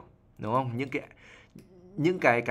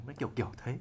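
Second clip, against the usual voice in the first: phlegmy demo; 10 dB quieter, much faster than usual. Shown as a demonstration. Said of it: "Giọng nói có cục đờm trong cổ".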